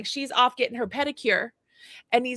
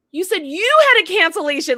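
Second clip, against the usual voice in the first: higher, louder indignant thought; inner outrage; 6 semitones higher, 7 dB louder than usual. Retold or imitated. Customer fuming silently at the receptionist, mock indignation. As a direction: replay the disbelief, mock incredulous.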